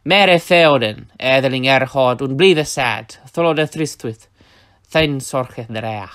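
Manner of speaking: put-on slow, loud, weighty Old English declamation; Beowulf recital. Shown as a demonstration. Teacher declaiming a Beowulf excerpt, slow and loud. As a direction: intone the Beowulf lines slowly like a scop. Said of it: "another example ... from Beowulf".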